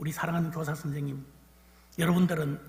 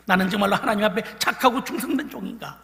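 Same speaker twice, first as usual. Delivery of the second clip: loud questioning; 5 semitones higher, 9 dB louder than usual. Real, not acted. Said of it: "스스로 제자들에게 물어봅니다".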